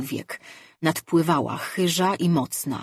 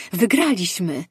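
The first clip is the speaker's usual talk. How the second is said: louder, bright cry of triumph; exclaiming victory; 3 semitones higher, 5 dB louder than usual. Acted. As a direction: call out the win. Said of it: "zawołała Majre". (radosny okrzyk zwycięstwa)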